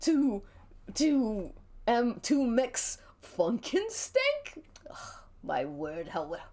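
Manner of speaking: put-on a touch of a prissy old queen; huffy, theatrical disdain; lightly voiced fussy host. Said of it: "an old queen kind of voice".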